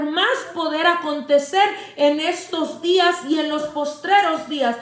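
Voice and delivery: preacher re-enacting her shout at the doubts, rising; fervent shouted declaration. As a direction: proclaim it like a battle cry of faith, building as it goes. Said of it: "yo gritaba y le dije".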